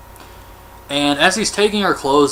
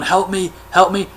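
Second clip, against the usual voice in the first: higher-pitched imitated plea; mock cry for help; 5 semitones higher than usual. Fleeing man to people in the parking lot, mild mock panic. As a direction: lightly act out calling for help.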